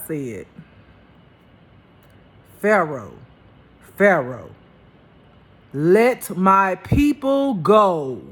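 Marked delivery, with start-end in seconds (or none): 2.6-8.2 loud, slow, booming God voice. Retold or imitated. Loud, slow voice of God commanding Pharaoh. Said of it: "I wanna say it like he said".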